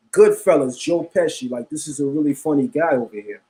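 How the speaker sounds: lightly hammed Italian accent; fake Italian accent. Streamer repeating a Goodfellas joke to viewers, fake Italian accent. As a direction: joke it in a mild mock-Italian voice. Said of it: "In my fake Italian voice".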